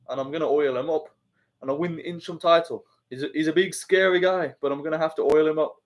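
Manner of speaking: lightly voiced Aspinall, barely off his own voice; a hint of a calm fighter talking up an opponent; Aspinall impression. Streamer jokingly impersonates a fighter calling out Dana, mild impression. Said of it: "Impression of Aspinall oiling up Dana".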